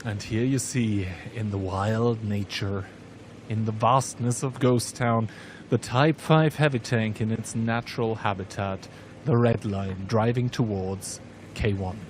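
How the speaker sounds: hushed nature documentary narrator. Acted. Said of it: "my Robert Attenborough impression".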